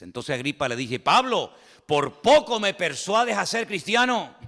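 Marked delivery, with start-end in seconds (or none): 1.0-4.4 Agrippa's reply. Acted. Agrippa answers Paul.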